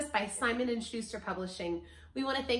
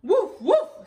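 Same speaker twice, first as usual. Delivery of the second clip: high, very loud woofs; two sudden punchy woofs; dog bark; 9 semitones higher, 12 dB louder than usual. A narrator's reading. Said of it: "says Dog".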